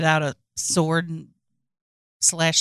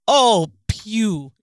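mock exclamation; 2 semitones higher, 4 dB louder than usual. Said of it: "how you would exclaim".

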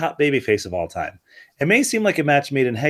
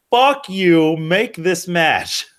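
defiant outburst; 4 semitones higher, much slower than usual. Retold or imitated. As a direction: shout it, then slow right down. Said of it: "I say".

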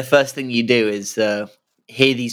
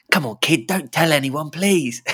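pleading; 4 semitones higher than usual. Acted. Cheating husband begging a child.

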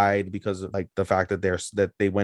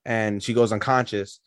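ordinary talk, nothing marked

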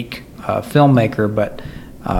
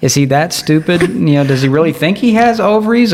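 incredulous; 6 semitones higher, 3 dB louder than usual. Real, not acted. Incredulous rhetorical questions.

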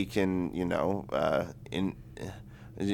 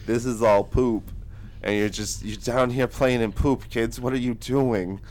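attempted Irish accent; 2 semitones higher than usual. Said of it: "I can't do an Irish accent".

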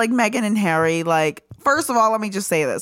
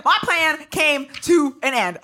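mock villain; 5 semitones higher, slower than usual. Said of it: "'Cause he said".

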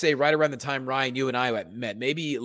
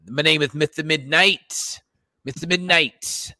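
Mister Midnight. Retold or imitated. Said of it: "in that character".

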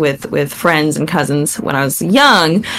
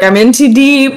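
laughing mock despair; 6 semitones higher, 5 dB louder than usual. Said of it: "you're like".

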